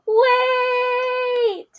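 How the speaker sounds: high, sharp "Wait!"; alarmed storybook cry; urgent call. Acted. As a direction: call out to stop them. Piggy stops the game.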